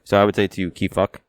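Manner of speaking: usual speaking voice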